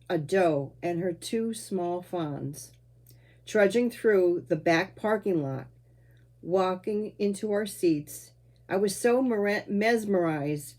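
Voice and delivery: measured recital with pauses between phrases; memoir poem reading. Acted. Poet recalling the drive home with Dad, measured recital. Reads own poem aloud.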